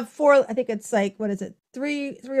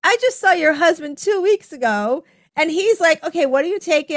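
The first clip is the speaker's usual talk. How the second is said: worked-up inner rant; 6 semitones higher than usual. Retold or imitated. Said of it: "in my head, I'm going".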